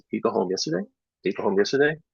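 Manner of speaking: teacher echoing a student's mistake to prompt a fix; echoing question. Shown as a demonstration. Teacher echoes a student's error, rising question. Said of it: "exact echo".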